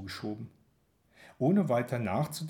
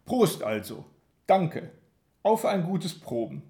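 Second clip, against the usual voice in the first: loud and firm; 5 semitones higher, 5 dB louder than usual. A narrator's reading. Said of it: "Ich sage laut und bestimmt".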